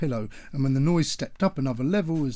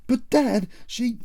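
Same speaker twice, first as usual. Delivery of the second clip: high, loud, cut off mid-word; protesting whine; 11 semitones higher, 4 dB louder, slower than usual. Acted. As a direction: plead and get interrupted.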